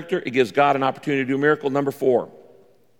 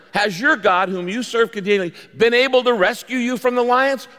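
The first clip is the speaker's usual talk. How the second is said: anguished cry; 8 semitones higher than usual. A narrator's reading. King calls to Daniel in the lions' den, anguished cry. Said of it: "in an anguished voice".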